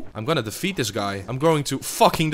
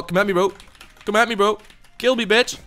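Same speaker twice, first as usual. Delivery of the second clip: mock taunt; 8 semitones higher, faster than usual. Taunting opponent.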